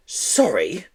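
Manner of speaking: sneer. Acted. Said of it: "sneered Miss Hatchett".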